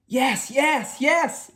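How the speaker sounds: put-on high, excited children's cheer; cheering crowd. A narrator's reading. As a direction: cheer like a happy class. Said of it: "cheered the crowd".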